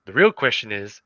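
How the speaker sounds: low, deliberate commercial delivery; measured low mock ad voice; ad guy. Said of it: "the guy looks at him and is like".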